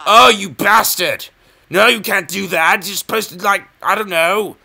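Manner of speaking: high, loud indignant cry; mock outrage. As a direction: protest in pretend outrage.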